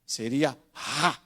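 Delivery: ra with a breathy aspirated R, slow; R aspirado. Shown as a demonstration. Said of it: "som aspirado de R". ("ra" com R bem aspirado, devagar)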